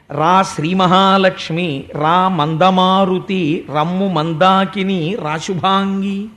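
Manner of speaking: slow, drawn-out cattle call; Krishna calling each cow by name, stretching it out. Acted. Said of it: "ఆవుల్ని పేరు పెట్టి కృష్ణుడు గట్టిగా పిలుస్తుంటే". (పేరు పెట్టి సాగదీస్తూ పిలవడం)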